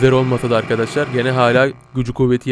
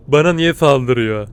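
slow; slower than usual. Real, not acted. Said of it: "Bana niye saldırıyor diye sorguluyorum".

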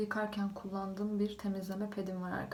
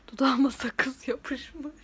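whispering; 5 semitones higher, 10 dB louder, much slower than usual. Real, not acted. Gum stuck on her lip.

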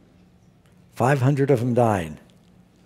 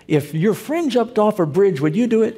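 mock parent scolding; 8 semitones higher than usual. Parent's scolding quoted to congregation.

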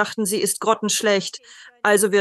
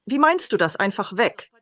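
puzzled question. Retold or imitated. Best friend questioning Mark's farewell at the pub, puzzled. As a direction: imitate a friend taken aback.

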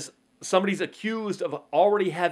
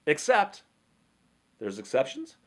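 mock surprise; 2 semitones higher than usual. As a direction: catch the loophole with mock surprise. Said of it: "So you go".

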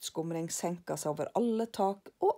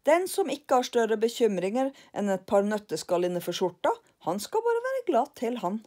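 louder, cocky moralizing; lecturing Karlsson; 4 semitones higher, 6 dB louder than usual. Acted. Karlsson lectures lillebror, louder. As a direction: preach it smugly.

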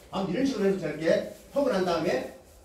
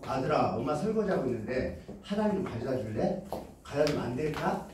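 polite request; 4 semitones lower than usual. Shown as a demonstration. 설거지하던 엄마가 아들에게 부드럽게 부탁함. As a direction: coax him gently with a favour. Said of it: "부탁해보세요".

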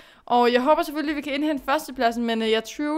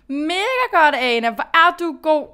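excited self-cheer; 3 semitones higher, 5 dB louder than usual. Real, not acted. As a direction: cheer yourself on after the good result. Cheering herself after good place.

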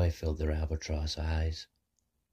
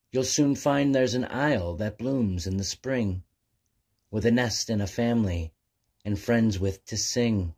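a lightly voiced wise seal, a bit higher; 4 semitones higher, 3 dB louder than usual. Seal advises Abigail to travel west, lightly wise. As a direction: give kind advice like a gentle old sage. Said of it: "One seal then spoke wisely".

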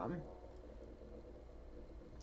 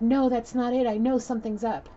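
raised, loud mock rebuff; accusing; 7 semitones higher, 6 dB louder than usual. Woman refusing her man's excuse, acted-out sharp accusation. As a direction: imitate an angry woman rejecting an excuse.

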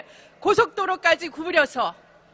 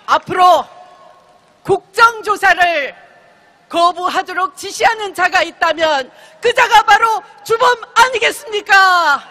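roaring rallying speech; 2 semitones higher than usual. Real, not acted.

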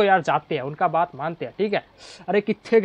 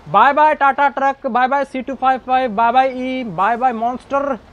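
cheery goodbye; 4 semitones higher than usual. Real, not acted. Playful farewell to trucks.

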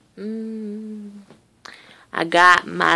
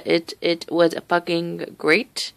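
ordinary delivery

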